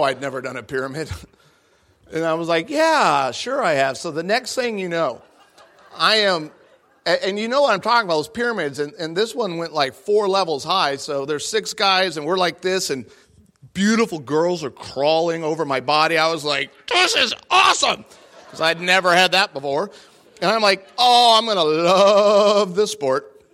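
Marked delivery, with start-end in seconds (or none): 2.7-4.0 overeager yes, then casual; mock confident bluff to impress Amy; fake confidence. 16.9-18.1 much higher, louder gleeful squeal; high excited squeal; squealing delight. Retold or imitated. Inner delight, girls crawling over. 21.0-23.4 louder, slow, savoring glee; slow giddy delight; gleeful delight. Retold or imitated. Inner delight at pyramid.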